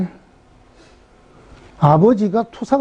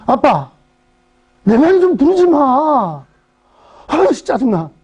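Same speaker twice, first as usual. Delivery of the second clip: put-on sulky teen; 4 semitones higher, slower than usual. Teenage daughter snapping at dad.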